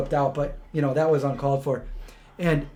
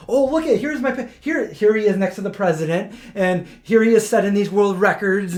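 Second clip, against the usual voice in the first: mock proud; 4 semitones higher than usual. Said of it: "he's like".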